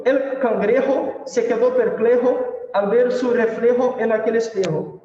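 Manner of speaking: recited in a Spanish accent; Spanish tongue twister. Shown as a demonstration. Teacher showing students a tongue twister, in Spanish accent. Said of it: "trava-línguas em espanhol".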